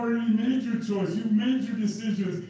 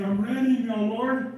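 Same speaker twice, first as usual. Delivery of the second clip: mild pleading; 3 semitones higher than usual. Acted. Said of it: "people in hell are saying".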